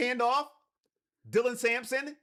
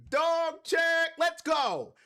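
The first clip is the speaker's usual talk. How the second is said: 1 sound effect cheer; 4 semitones higher, much slower than usual. Shown as a demonstration. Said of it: "I'll do the sound effects".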